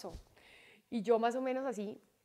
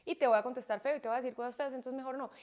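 softly measured retold parent talk; composed explanatory tone; 5 dB quieter than usual. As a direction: explain it softly and evenly to a child. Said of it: "así, en este tono".

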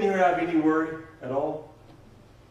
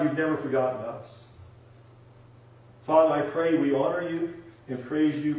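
leading prayer. Real, not acted. Preacher asking Heavenly Father to forgive compromise, prayerful.

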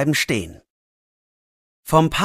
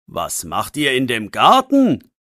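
a hint of a stern policeman; mildly stern question. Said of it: "fragt er streng". (ein Hauch von strengem Polizisten)

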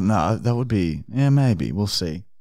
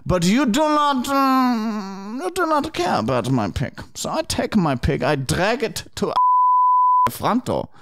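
Arnold Fine voice; 3 semitones higher than usual. Acted. Prank caller voice continues.

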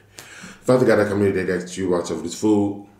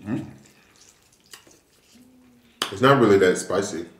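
talking while chewing. Real, not acted. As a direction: mouth partly full. Seen 0: Eats noodles with chopsticks throughout; lips closed, chewing before speaking.

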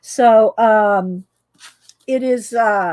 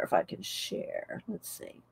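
muttering to self; 5 semitones lower, 18 dB quieter than usual. Real, not acted. Searching for a picture.

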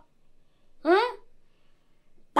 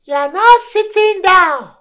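stern accusation; 3 semitones higher, 5 dB louder than usual. Acted. Prophet accuses Collins.

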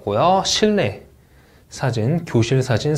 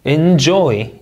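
'enjoy' with a louder JOY; second-syllable stress; 2 semitones higher, 6 dB louder than usual. Shown as a demonstration. Teacher drilling word stress, second syllable strong. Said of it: "이음절 강세".

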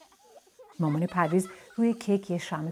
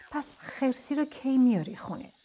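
higher-pitched little toy voice, asking; questioning toy character; 7 semitones higher than usual. A narrator's reading. Toy asks Parviz about the missing bear, high questioning voice. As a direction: pipe up with a high toy's question.

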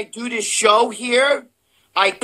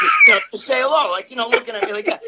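words squeezed out through a high laugh; cracking up mid-sentence, fast; 3 semitones higher, faster than usual. Real, not acted. Telling a friend about Arnold's elbow, laughing hard.

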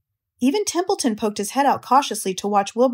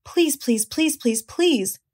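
teasing goslings; 4 semitones higher, much slower than usual. A narrator's reading. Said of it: "all seven began teasing to go".

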